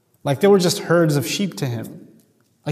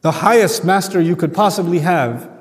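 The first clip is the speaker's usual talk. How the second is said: imperious pharaoh. Retold or imitated. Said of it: "he declared".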